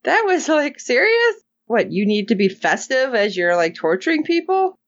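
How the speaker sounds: high-pitched, exasperated disbelief; incredulous. Real, not acted. Host reacts to a torturer decorating the gurney, incredulous. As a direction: voice leaping up in baffled objection.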